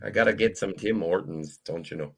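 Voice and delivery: Minnesota-style Canadian, fading soft; lightly voiced Fargo Canadian; Canadian accent. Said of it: "My Canadian accent goes very much into Minnesota".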